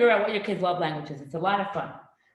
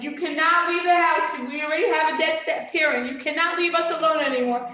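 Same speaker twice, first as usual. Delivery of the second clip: high, louder mock child demands; kids protesting; 8 semitones higher, 5 dB louder than usual. Children forbidding their parents to leave the house, mock demanding. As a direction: play the kids laying down the law, hammed-up. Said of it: "and, like".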